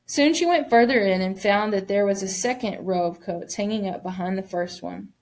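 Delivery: put-on reading a children's novel aloud to the class; story narration. A narrator's reading. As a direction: tell the story clearly, lightly voicing each child.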